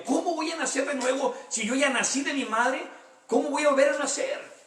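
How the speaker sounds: half-laughing imitation of a confused Nicodemo; puzzled Nicodemo. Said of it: "Pero no entendía Nicodemo". (Nicodemo desconcertado, imitado entre risas)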